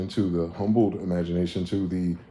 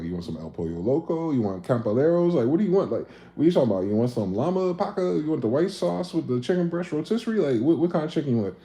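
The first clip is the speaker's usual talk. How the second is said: higher, rapid-fire mock exasperation; exasperated listing; 6 semitones higher than usual. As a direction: pile on the options, getting fed up. Boyfriend listing restaurants.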